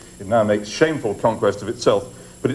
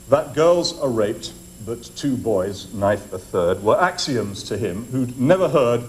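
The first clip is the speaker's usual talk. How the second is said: poem reading; 2 semitones lower than usual. Shown as a demonstration. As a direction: read the lines like a solemn poem. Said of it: "Let me just read them to you".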